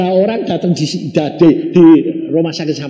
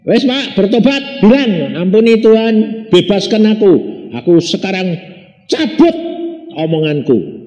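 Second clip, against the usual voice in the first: higher, louder pleading prayer voice; urging repentance; 5 semitones higher, 4 dB louder than usual. Retold or imitated. Pastor urging a dying man to pray, raised and pleading. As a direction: press the old man to repent, a touch raised.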